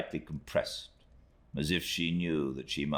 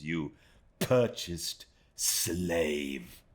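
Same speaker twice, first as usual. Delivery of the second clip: slow, cutting contempt; slow scorn; 4 semitones higher, slower than usual. Acted. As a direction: spit each word slowly with disdain. Rosa scorns Emily.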